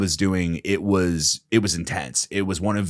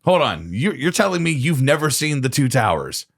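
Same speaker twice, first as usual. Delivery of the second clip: louder, raised stop-right-there; incredulous; 6 semitones higher, 3 dB louder than usual. Real, not acted. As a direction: demand he repeat it. Friend shocked at news.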